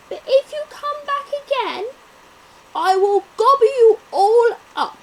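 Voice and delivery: loud, high, blustering lion threatening; booming lion. Acted. Lion warns the cheeky mouse, loud and blustering. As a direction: puff up and roar the warning at the mouse.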